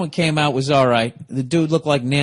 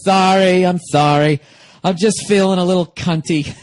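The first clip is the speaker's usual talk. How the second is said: louder mock sassy apology; campy apology; 4 semitones higher, 5 dB louder than usual. Comedian mimicking the drag host apologizing, louder and sassy. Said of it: "He goes".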